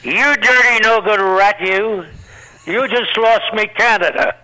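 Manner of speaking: a hammed-up gangster snarl at the comic; mock angry mobster. Ed Sullivan grabs the comic offstage, mock angry snarl. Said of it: "he grabs me".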